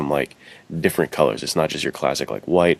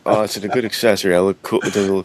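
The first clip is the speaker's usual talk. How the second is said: mock dweeb voice; 3 semitones higher than usual. Mocking a rope-wearing dweeb.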